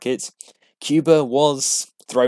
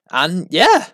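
triumphant yeah; 7 semitones higher, 6 dB louder than usual. Real, not acted. Celebrating finishing the episode.

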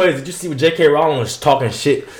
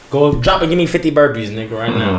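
barking gym coach. Acted. Barking a workout order.

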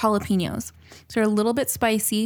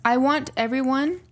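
mock serious instructions; 3 semitones higher than usual. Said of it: "listen to me very carefully".

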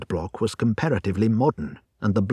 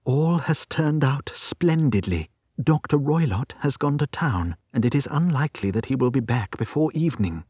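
higher-pitched woman sharing good news; a hint of pleased relief; lightly voiced relieved client; 4 semitones higher than usual. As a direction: lightly play an eager client, quickening at the end. Narrator voices Miss Stoner, relieved.

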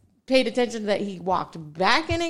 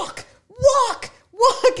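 high, punched repeated order; acted-out high-pitched marching order; retold command; 12 semitones higher, 4 dB louder, much slower than usual. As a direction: order him along, word by word. Acting out ordering the man along.

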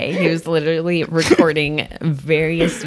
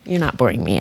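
mid-yawn; 3 semitones lower than usual. Real, not acted. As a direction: talk through a yawn. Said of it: "I just had to yawn".

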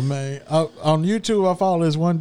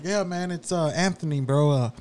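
lower, softer fake-sick voice; faking sick; 3 semitones lower, 5 dB quieter than usual. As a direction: play the sick caller, pitiful and low. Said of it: "he's playing both characters".

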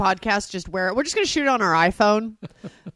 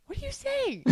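incredulous inner voice; 14 semitones higher, 14 dB quieter than usual. Retold or imitated. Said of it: "like, place going".

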